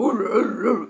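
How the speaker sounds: odd vocal noise of a car; imitated car noise. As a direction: mimic a car rumbling along. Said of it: "how I made that voice".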